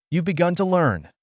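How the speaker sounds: a mentor's pride in his pupil; old teacher proudly praising the boy. A narrator's reading. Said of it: "Ezra said proudly".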